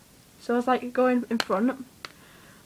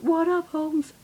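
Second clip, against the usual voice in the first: cool dude greeting; 7 semitones higher, 4 dB louder, slower than usual. Retold or imitated. Voicing Max's cool reply.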